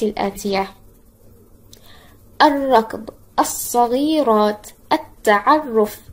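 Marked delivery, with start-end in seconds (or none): 2.4-6.0 الركض، الصغيرات، التعرف with no l and the next consonant held; doubled sun letter. Shown as a demonstration. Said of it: "الحرف الذي يليها يكون مشددا".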